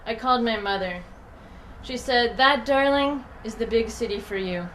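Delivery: measured literary reading with deliberate line breaks; poem reading. Acted. Poet reading own work to an audience, measured recital. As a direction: read it out as a poem, pausing between lines.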